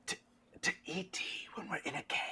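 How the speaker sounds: high, whispery character voice; puzzled game character. Acted. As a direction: ask in a soft, airy whisper. Game master voices cave character.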